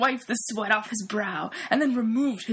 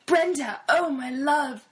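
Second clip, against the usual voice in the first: passionate yell; 4 semitones higher than usual. Acted. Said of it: "Sven yelled passionately".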